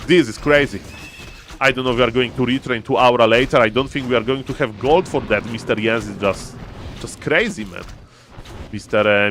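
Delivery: lively play-by-play commentary; esports caster. Acted. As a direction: call the match like a caster. Casts the esports game live.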